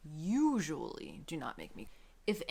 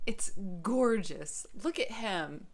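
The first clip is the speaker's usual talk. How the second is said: admiring; 3 dB louder, slower than usual. Real, not acted. Showing off a beautiful book.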